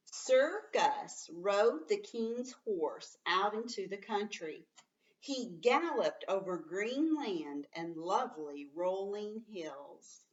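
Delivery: slow, lilting read-aloud; teacher reads the story aloud to the class; storybook reading. Acted. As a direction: read it like a picture book to children.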